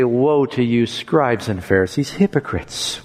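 fading to a near whisper, grieving; sorrowful rebuke trailing off; tears in his voice. Shown as a demonstration. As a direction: mourn over them as you rebuke. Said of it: "with tears in his voice".

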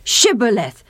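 "Shibboleth" with a crisp sh, falling; clear shibboleth. Shown as a demonstration. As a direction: present the word proudly. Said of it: "Listen to this".

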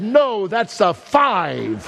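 mock the teacher's correction while chuckling; teacher's reply retold with a laugh; laughing teacher quote.

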